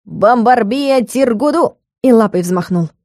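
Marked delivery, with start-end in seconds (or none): 0.0-1.8 calm incantation. A narrator's reading. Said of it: "совершенно спокойно произнёс".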